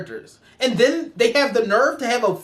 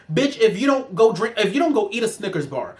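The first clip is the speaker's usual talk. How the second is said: ordinary delivery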